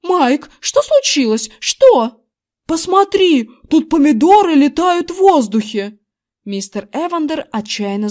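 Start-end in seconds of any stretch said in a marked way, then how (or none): 0.0-2.2 alarmed. A narrator's reading. Лицо у неё было испуганное. 2.7-6.0 loud, higher astonished shout; excited shout. A narrator's reading. Husband showing his wife flying tomatoes, excited shout.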